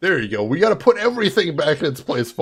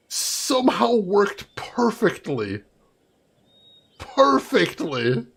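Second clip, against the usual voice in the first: whisper; 3 semitones higher, much slower than usual. Real, not acted. Disbelief at absurd game logic.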